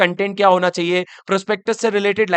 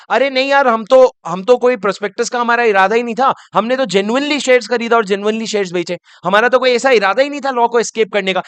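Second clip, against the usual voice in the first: acted protest; 3 semitones higher than usual. Issue house denying any intent to escape the law, mock protest. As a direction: plead innocent on the issue house's behalf.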